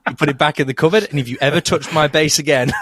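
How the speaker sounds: lightly played dad giving instructions; mock warning from a protective father; imagined stern dad. Co-host as dad guarding his bass, mock stern. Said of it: "I just pictured your dad going".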